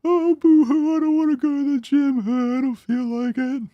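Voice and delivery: high, whiny, slow mock complaining; mocking a whiny gym skipper; whiny bitch voice. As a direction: whine it like a spoiled kid. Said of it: "in your whiny bitch impression voice".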